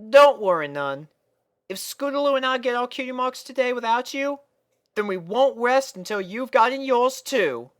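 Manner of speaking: high, kind filly promise; reassuring Apple Bloom. A narrator's reading. Apple Bloom reassuring Sweetie Belle, warm. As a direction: comfort her with a promise.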